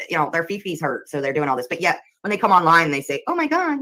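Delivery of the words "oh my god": high mocking "oh my God"; mock whining. Mocking haters who cry online, whiny parody. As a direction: parody a drama queen. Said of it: "they go cry about it".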